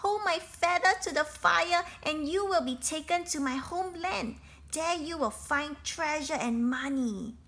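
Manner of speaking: high pleading bird voice; lucky bird voice. Acted. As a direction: keep the small bird's urgent plea going. Lucky bird speaks to captor.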